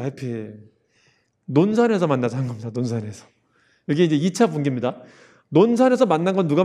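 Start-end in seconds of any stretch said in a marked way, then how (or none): 0.0-0.6 soft echo. Shown as a demonstration. Teacher repeats word. 2.7-3.3 soft echo. Shown as a demonstration. Teacher repeats place name.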